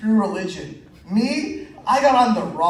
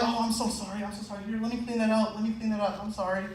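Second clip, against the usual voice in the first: sheepish apology; 7 dB quieter, faster than usual. Retold or imitated. Frantic apology after spilling.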